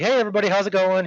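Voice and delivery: high, fast friendly hello; upbeat greeting retold; cheery greeting. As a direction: breeze in all friendly. Really nice, really positive.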